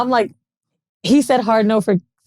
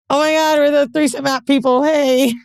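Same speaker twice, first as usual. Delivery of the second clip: higher, blurted-out hello with stretched hey; goofy, awkward greeting; 3 semitones higher than usual. Retold or imitated. Blurting hello to the couple, goofy and awkward. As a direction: imitate an overeager, awkward introduction. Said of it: "and I'm goofy".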